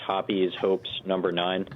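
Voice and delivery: "Hoppe's Hopes" tried as HOP-eez then HOPES; "Hoppe's Hopes" said both ways, unsure; unsure pronunciation. Shown as a demonstration. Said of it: "I don't know how it's pronounced".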